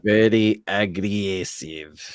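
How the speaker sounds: put-on slow, heavy Russian accent; Teddy KGB style Russian accent. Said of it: "Doing the Russian accent".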